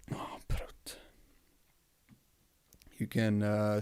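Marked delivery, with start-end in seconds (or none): 0.1-1.0 whispered "Oh, prut" under the breath; mumbled. Shown as a demonstration. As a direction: mutter prut to yourself, annoyed. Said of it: "mumble it like".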